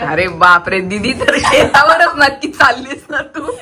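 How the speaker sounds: teasing through laughter; laughing. Real, not acted. Vlogger doubting sister is farm-bound, laughing. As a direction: laugh as you tease her.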